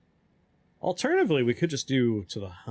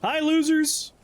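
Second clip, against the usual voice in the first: high chirpy VTuber greeting; cute anime streamer; 4 dB louder, slower than usual. Acted. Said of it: "makes us talk like a VTuber".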